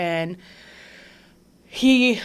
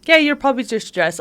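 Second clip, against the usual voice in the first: quick, higher, brushing it off; dismissive; 5 semitones higher, 3 dB louder, faster than usual. Retold or imitated. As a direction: toss it off like a careless doctor. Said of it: "it's funny".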